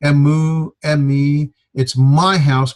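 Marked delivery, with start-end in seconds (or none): 2.0-2.8 MY punched harder than house; contrastive stress on MY. Shown as a demonstration. Teacher illustrates contrast for students, stressing MY. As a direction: hit my as a claim against yours. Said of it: "meaning not yours".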